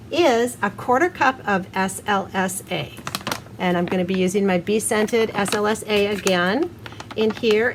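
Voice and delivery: muffled through mask. Real, not acted. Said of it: "sorry if my voice sounds muffled".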